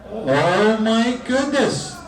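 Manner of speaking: big slow gasp of wonder; stretched-out high exclamation; surprised. Acted. Clown act begins, mock amazement.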